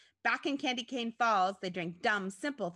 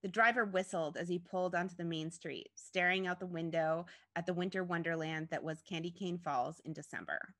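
ordinary delivery

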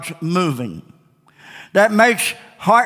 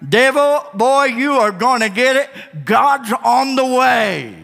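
higher, slow defiant warning; bold taunt; 4 semitones higher than usual. Shown as a demonstration. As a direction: call it out boldly at the devil. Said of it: "Boy, devil, are you gonna get it?".

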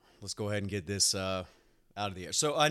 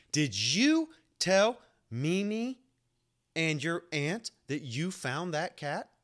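mimicking mom; 4 semitones higher, slower than usual. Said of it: "she was like".

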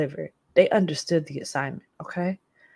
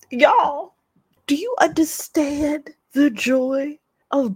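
overjoyed; 6 semitones higher, 3 dB louder than usual. Real, not acted. Overjoyed recap of corn-free pizza.

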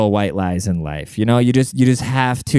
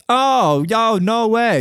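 shocked; 11 semitones higher, much slower than usual. Real, not acted. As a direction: jump way up in pitch, stunned disbelief. Shocked reaction to hidden debt.

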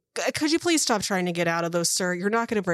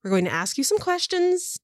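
lightly voiced interrogator, strained patience; patient woman interrogator; 3 semitones higher than usual. Woman asking prisoners to cooperate, patient but strained. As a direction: reason with them, lifting the pleas.

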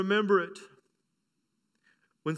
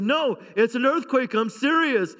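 insistent; 4 semitones higher than usual. Retold or imitated. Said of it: "I said".

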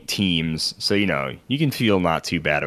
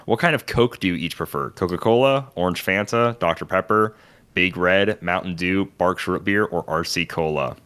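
reluctant reading. Real, not acted. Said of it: "I'll read it how you type it".

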